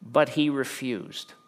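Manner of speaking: slow, deliberate verse reading. Shown as a demonstration. Preacher reading the refusal slowly to the congregation. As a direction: read it slowly, weighing each word. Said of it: "Now look at the response".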